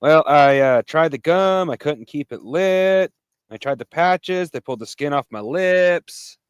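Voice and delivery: slow, drawn-out impression of a struggling quitter; lightly voiced friend, dragging each line slowly; Shadow quitting smoking. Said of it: "here's my impression of a Shadow trying to quit smoking".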